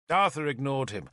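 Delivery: ordinary delivery, nothing marked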